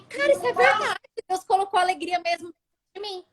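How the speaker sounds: high-pitched dawning realization; reenacted astonished discovery; retold amazement. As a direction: voice leaps up, marveling to herself.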